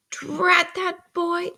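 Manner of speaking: very slow, high-pitched exasperation; exasperated scolding. A narrator's reading. Sister interrupts the boy's questions, exasperated. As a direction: drag out each word in annoyance.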